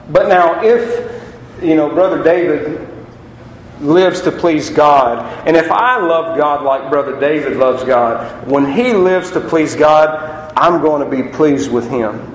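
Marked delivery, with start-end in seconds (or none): 3.8-5.5 "lives to please God" drawn out slowly, each word weighted; slow emphasis. Acted. Preacher to congregation, slowly stressing "lives to please God". 8.5-10.5 "lives to please God" drawn out slowly, each word weighted; slow emphasis. Acted. Preacher to congregation, slowly stressing "lives to please God".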